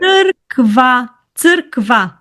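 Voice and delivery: Църква said slowly and clearly, starting with a ts sound; slow, clear teacher model of Църква; model pronunciation. Shown as a demonstration. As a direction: spell out Църква for a learner: ts-UR-kva. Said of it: "say the church again".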